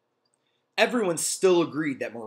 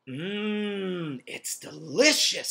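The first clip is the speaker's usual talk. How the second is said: put-on delighted girl voice; 6 semitones higher, much slower than usual. Dee Dee voiced in story.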